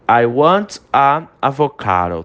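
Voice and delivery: slow drill of the wrong form "a avocado"; slow wrong example. Shown as a demonstration. Teacher slowly repeating the wrong sentence for students. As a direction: read the mistake slowly. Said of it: "Tá errado esse".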